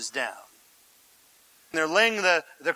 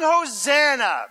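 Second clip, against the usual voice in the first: slow, higher-pitched mock shout; moderately raised, drawn-out crowd cry; 5 semitones higher, 4 dB louder than usual. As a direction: stretch out the cry of acclamation. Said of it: "They're, they're shouting".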